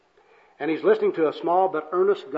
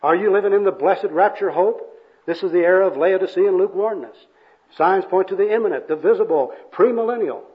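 raised, loud evangelist declamation; hammed-up churchy pronouncement; pious jargon preaching; 4 semitones higher, 6 dB louder than usual. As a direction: proclaim doctrine like an overzealous soul-winner. Second worker preaches jargon at bum.

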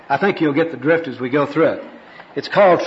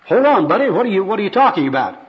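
high-pitched interruption; acted indignant confusion; baffled protest; 5 semitones higher than usual. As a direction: cut in on a pushy preacher, bewildered. Bum interrupts the preacher's harangue.

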